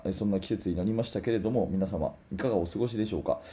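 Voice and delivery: hoarse, worn-out voice. Real, not acted. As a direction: speak through a voice hoarse from shouting. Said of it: "喉がというか声が枯れておりまして". (枯れた声)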